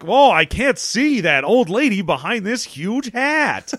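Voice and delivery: high, slow put-on voice, peering past a hat; mock surprised customer. Improv trainee playing a confused salesman, high put-on voice. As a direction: play a befuddled salesman squinting. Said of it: "And I'm like".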